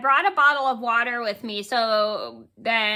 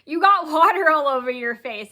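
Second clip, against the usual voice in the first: laughing friend; 2 semitones higher, 4 dB louder than usual. Retold or imitated. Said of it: "He goes".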